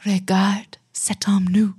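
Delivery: slow French recital. Shown as a demonstration. Recites remembered French class phrase.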